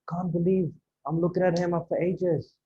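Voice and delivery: hushed amazement, spoken aside to a partner; surprised disbelief. Shown as a demonstration. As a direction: marvel to your lunch partner that it's really him. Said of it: "That kind of tone".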